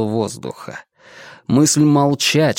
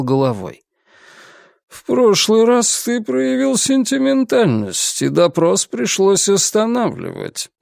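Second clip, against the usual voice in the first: stern inquisitor; 7 semitones higher than usual. Acted.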